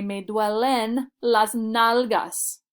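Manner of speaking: very slow, each word laid out for learners; slow clear demo. Shown as a demonstration. Teacher modelling the phrase for students, slow and clear. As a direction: spell it out slowly for the class. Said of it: "So I would say".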